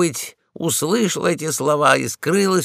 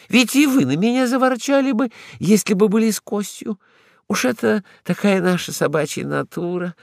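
higher, quick chattering lady dog; excited exclamation; 7 semitones higher than usual. Acted. Ragulya exclaims to Polkan about hidden bones, excited. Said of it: "воскликнула она".

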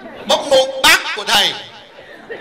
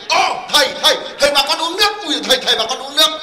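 flustered sweet greeting; 2 semitones higher, faster than usual. Retold or imitated. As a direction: imitate being caught out, rushing to be hospitable. Cursing woman suddenly greets the monk.

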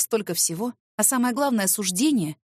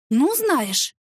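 higher, louder outburst; indignant exclamation; 6 semitones higher, 4 dB louder than usual. Acted. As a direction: flare up in outrage. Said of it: "выдохнула я, вспыхнув от возмущения". (возмущённо)

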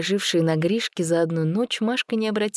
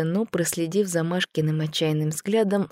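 ordinary delivery, nothing marked

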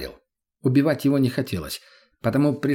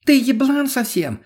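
much higher, louder, slow shout; breaking into a shout; 13 semitones higher, 4 dB louder, slower than usual. Acted. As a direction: snap into a shout. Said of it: "сорвалась на крик Лена".

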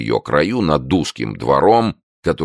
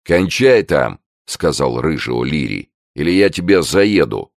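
a touch louder, bullying redhead; lightly voiced threatening tough guy; gruff threat; 3 semitones higher, 4 dB louder than usual. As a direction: warn him off like a brawler. O'Leary threatens a rival.

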